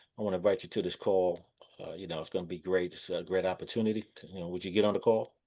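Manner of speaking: gloomy, unenthusiastic, flat down-in-the-dumps pitch. Showing how not to invite someone to a call: mock down-in-the-dumps tone. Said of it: "it sounds like you're down in the dumps".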